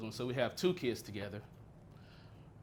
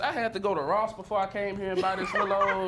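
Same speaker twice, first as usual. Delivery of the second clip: laughing; 6 semitones higher, 6 dB louder than usual. Acted. Mocking her outfit, laughing.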